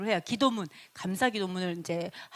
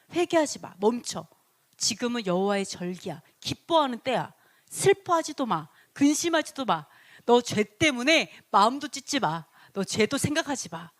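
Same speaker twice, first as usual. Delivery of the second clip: commanding scribe. Retold or imitated. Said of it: "이렇게 얘기했다라는 거죠".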